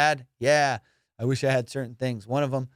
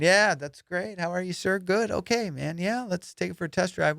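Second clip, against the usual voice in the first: a polite well-behaved buyer, pitched higher; good-boy politeness; 5 semitones higher than usual. Retold or imitated. Buyer politely answering the car seller, a bit higher. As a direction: sound like a nice, proper young man. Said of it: "I'm being a good boy".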